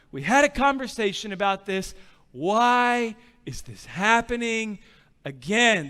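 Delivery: worn-out appeal, drawing out the question; mild acted despair, ending with a falling "again"; pleading. Dad reasoning with repainted son, weary pleading. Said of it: "like, pleading with you, boy".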